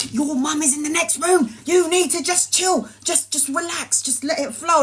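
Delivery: mock stoned reassurance; stoned friend soothing. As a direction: tell her to chill, unhurried. Stoned friend calming her down.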